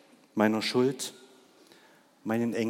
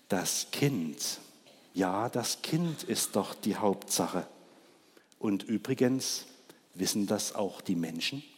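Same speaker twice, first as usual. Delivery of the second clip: softer, subdued ox; ashamed; 3 semitones lower, 6 dB quieter than usual. Acted. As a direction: mumble it with head bowed. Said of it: "senkte der Ochse beschämt den Kopf". (Der beschämte Ochse, leise und kleinlaut)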